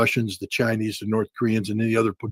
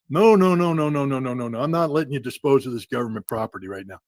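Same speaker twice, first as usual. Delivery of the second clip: mock officer refusal. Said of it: "Simulate the crash".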